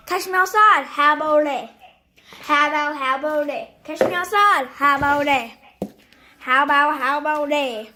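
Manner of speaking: "outside" and "How about it" run together in a catchphrase slur; punched "outside", then "How about it" with swallowed consonants; catchphrase demo. Shown as a demonstration. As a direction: show how the catchphrase goes, slurring "How about it". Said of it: "No. It's like".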